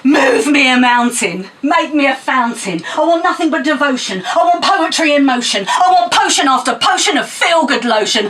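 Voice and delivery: rhythmic, punchy poem recital; spoken word poem. Acted. Poet performing Moon on a Stick at open mic, rhythmic recital. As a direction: perform it to the crowd with attitude.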